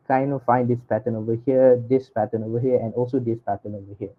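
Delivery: muffled, as if through a hand. Real, not acted. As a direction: speak muffled, mouth partly covered. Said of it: "the audio is a bit muffled".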